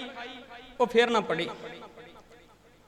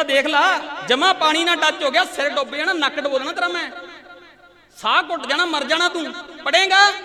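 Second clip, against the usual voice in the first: higher, raised threatening shout; father's threat; 3 semitones higher than usual. Retold or imitated. Furious father shouts threats down the well at his son. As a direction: threaten the boy, pitch climbing to the last question.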